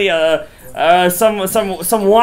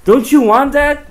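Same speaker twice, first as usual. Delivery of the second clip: rising fervor; 2 semitones higher, 5 dB louder than usual. Real, not acted. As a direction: preach it up to a crescendo. Preaching build to climax.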